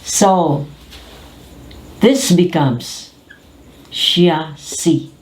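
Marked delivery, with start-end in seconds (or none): 3.9-5.1 CHASSIS as SHA-see, final S silent; chassis pronunciation. Shown as a demonstration. Teacher demonstrates the French-influenced word, SHA-see for chassis. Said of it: "C H has the sound of S H".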